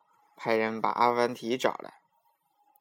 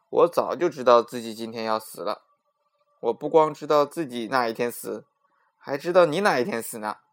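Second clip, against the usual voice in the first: louder, knowing storyteller Afanti; sly Afanti; 5 dB louder than usual. Acted. Afanti to the king, slyly confident and loud. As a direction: tease the king with a sly secret.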